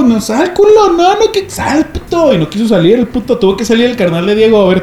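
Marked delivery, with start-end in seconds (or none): 0.0-2.3 mock yell. Yelling at friend to come out.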